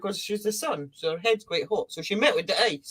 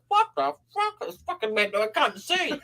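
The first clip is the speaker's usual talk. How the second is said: mock panic; 2 semitones higher than usual. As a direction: freak out at the dark. Creatures panicking at sunset.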